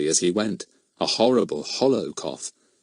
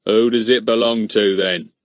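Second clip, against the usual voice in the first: demanding; 4 dB louder than usual. Acted. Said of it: "demanded Mister Goon".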